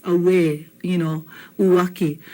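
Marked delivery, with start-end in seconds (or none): 0.0-0.7 "Away" said ah-weh; "Away" as ah-weh with a clear W; W glide. Shown as a demonstration. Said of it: "those are definitely W glides". 1.6-2.2 "Uwaki" said oo-wah-kee; "Uwaki" with a clear W, no V; W glide. Shown as a demonstration. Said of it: "those are definitely W glides".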